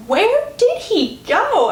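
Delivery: high, drawn-out retold thought; puzzled wondering. Heroine thinking to herself by an empty room, puzzled. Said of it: "thinking to herself".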